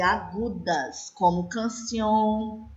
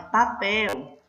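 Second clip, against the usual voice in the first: "papel" with the weight on PEL; stress on last syllable. Shown as a demonstration. Teacher showing the class the strong syllable, stressed PEL in "papel". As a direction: lean on the final syllable of "papel". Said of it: "a sílaba forte".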